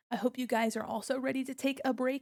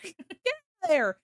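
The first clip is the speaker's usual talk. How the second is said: laughing mock scold; 8 semitones higher, 5 dB louder than usual. Chat pokes avatar's nose.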